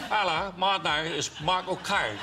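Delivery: Michael Caine. Shown as a demonstration. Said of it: "I can do it".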